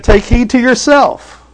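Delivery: high, slow, loud quote; slow weighty scripture line; solemn emphasis. Acted. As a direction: declare it slowly from the pulpit. Quoting Jesus with emphasis.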